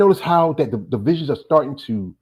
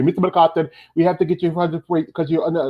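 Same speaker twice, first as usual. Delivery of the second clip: lightly imitated Indian doctor; Indian accent; 3 semitones higher than usual. Doctor addressing his patient, lightly imitated Indian accent. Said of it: "he was an Indian doctor".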